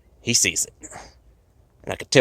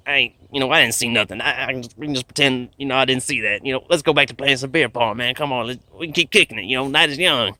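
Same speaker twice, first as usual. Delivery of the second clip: anxious pleading; 5 semitones higher, 3 dB louder than usual. Pretend. Begging alien to forget probe.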